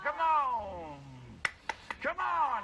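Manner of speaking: high, loud drawn-out yell; real all-out coach shout; hype shout. Real, not acted. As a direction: goad them to go bigger. Coach hyping the screamer.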